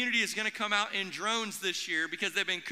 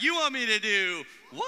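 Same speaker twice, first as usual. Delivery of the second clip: shouted call-back; louder call; 4 dB louder than usual. Shown as a demonstration. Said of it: "We can do so much better than that".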